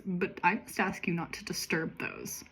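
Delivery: whisper. Acted. Assistant warns about the pantries.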